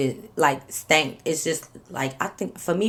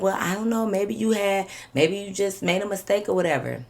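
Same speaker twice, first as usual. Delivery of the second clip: higher-pitched feigned innocence; mimicked evasiveness; 4 semitones higher than usual. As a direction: play her dodging the blame, voice lifted. Imitating cousin's evasive excuse.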